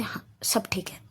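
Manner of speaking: soft unvoiced whisper to the sister. A narrator's reading. Sanju whispering to her little sister at lunch. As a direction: whisper it so the others at the table don't hear. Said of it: "ये फुसफुस क्या चल रहा है".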